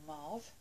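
Mauve with an open "ah" vowel, like "marv"; alternative pronunciation. Shown as a demonstration. Vlogger naming a nude lipstick, Mauve pronounced like "marv". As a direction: say Mauve as "mahv". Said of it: "whichever you wanna pronounce it".

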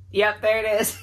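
tearful laugh breaking into a sob; the tears finally spill over, laughing at yourself; laughing through tears. Real, not acted. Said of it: "I can feel the tears welling up again".

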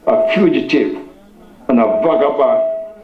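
measured reading with long pauses; scripture reading. Real, not acted. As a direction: read it out solemnly, phrase by phrase. Reads scripture to congregation.

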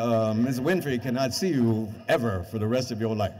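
mock secretary. An assistant turning him down, mock officious. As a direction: read the rejection like a bored clerk. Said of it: "secretary number twenty-nine calling you".

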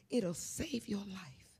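soft, slow whisper; whispered plea. Real, not acted. Star confiding life advice to audience, slow whisper. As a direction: breathe it like a secret. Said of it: "intimate aside to audience".

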